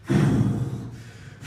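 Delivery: long, heavy exhale of annoyance; imitated fuming huff. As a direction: huff wordlessly like a fuming coworker. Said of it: "she is fuming".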